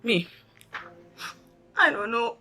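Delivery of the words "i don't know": tearful, breaking voice; crying role play. Retold or imitated. Telling Tamara through tears what the agent did, crying. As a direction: let the words break into sobs. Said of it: "a role play there".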